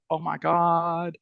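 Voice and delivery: slow, soft, drawn-out exasperation; retold dismay. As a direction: let it sink in, slowly and quietly. Retold dismay at another absurd failure.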